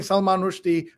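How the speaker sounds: RUSHDIE as ROOSH-dee; corrected pronunciation. Shown as a demonstration. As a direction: say Rushdie with a short oo. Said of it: "people think you're crazy".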